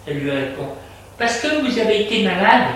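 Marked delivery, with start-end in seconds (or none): 1.2-2.7 higher, deferential servant voice; maid. A narrator's reading. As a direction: explain as the maid, pitched up. Maid explains he was ill. (bonne à la voix haute)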